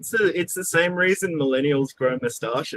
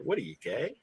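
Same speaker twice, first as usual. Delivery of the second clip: mocking; 6 semitones higher, 5 dB louder than usual. Mocking people from back then.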